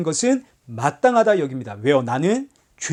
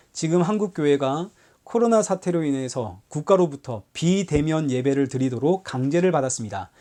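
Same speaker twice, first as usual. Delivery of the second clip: usual speaking voice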